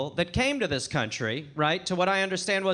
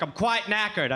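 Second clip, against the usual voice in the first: lightly imitated British mum; a hint of English mum's accent; English mother's accent. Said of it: "mother never really adopted American English".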